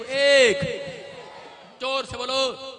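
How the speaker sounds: loud excited countdown; shouted commands. Acted. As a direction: shout each word out.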